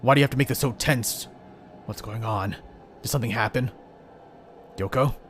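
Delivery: startled young hero, lightly voiced. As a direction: play the hero puzzled and uneasy.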